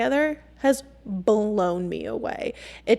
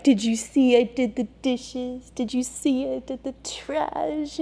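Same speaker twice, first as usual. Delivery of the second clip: eager boyfriend impression; 2 semitones higher than usual. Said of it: "along the lines of, like".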